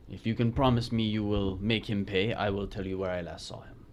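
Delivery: put-on Spanish accent. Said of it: "is a bad Spanish accent".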